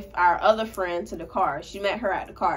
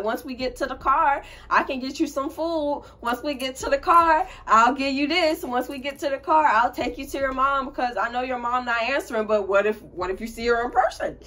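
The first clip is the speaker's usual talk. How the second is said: coaxing little lies; 4 semitones higher than usual. Retold or imitated. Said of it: "I'm having to say".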